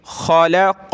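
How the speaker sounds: खलक़ल्लाहु with a full, heavy ल in अल्लाह; heavy Allah. Shown as a demonstration. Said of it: "लफ्ज़ अल्लाह को मोटा करेंगे". (खलक़ल्लाहु में अल्लाह मोटा पढ़ें)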